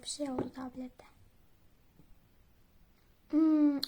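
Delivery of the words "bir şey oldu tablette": quiet puzzled whisper. Real, not acted. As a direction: whisper it, confused by the crash. Game crashed, whispered. (şaşkın bir fısıltıyla)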